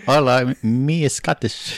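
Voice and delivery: slow, badly faked Scottish accent; mock Scottish accent. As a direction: drag out a deliberately botched Scottish accent. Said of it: "Do Scottish".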